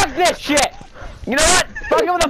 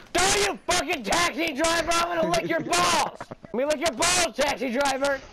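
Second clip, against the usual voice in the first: angry yelling; 6 dB quieter than usual. Real, not acted. Yelling at a taxi driver in-game.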